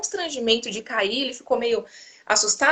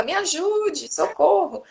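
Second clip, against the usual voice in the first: put-on child crying for help; 7 semitones higher, much slower than usual. Son in the dark bedroom, still begging in a high voice. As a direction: echo the little boy's whining call. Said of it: "ele fica".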